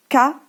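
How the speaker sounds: K pushed out crisply as a clear hard k; insist on the sound. Shown as a demonstration. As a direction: stress the K so the child hears it. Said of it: "Donc, vous insistez bien".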